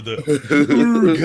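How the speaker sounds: "Urge" stretched into "ÜR-guh"; loud, slow German "OOR-guh" for "Urge"; umlaut on Urge. Shown as a demonstration. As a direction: exaggerate the German vowel in "Urge". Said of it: "There's an umlaut".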